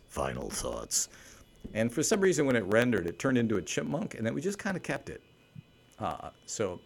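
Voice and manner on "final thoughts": low, slow, reverberating announcer boom; deep announcer voice. Shown as a demonstration. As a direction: drop way down and draw it out like a movie trailer. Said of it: "I made this cool, deep, reverberating voice".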